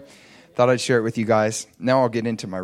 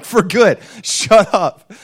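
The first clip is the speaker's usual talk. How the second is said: much higher and louder, commanding; bold rebuke; 8 semitones higher, 10 dB louder, much slower than usual. Retold or imitated. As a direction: snap at her to stop for good. He repeats the rebuke, surprising himself.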